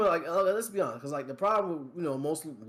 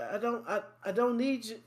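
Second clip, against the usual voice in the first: higher-pitched, halting mock objection; mock protest; 6 semitones higher than usual. Player to hand-holding game, mock protest. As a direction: act out pulling away from a pushy helper.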